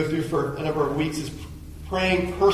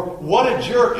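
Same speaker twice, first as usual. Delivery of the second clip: annoyed remark; 6 semitones higher, 5 dB louder, slower than usual. Retold or imitated.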